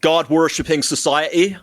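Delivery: put-on "God-worshipping society" said in an American accent with the T's dropped; friend's spot-on Tate accent on "God-worshipping society"; Andrew Tate impression. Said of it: "That's it. That's exactly it. That's perfect".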